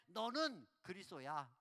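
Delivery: slow, flat banmal with no honorific; blunt casual speech. Shown as a demonstration. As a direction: say it rudely casual, like to a peer. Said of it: "이렇게 싸가지가 없죠". (반말로 무례하게)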